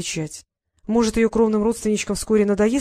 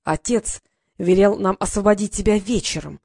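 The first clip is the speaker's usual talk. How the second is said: mild menace; 3 dB louder than usual. Acted. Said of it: "прошипел Норт зловеще".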